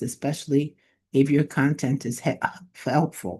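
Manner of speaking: throat catching mid-word; words caught in a choking throat. Real, not acted. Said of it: "I'm choking here".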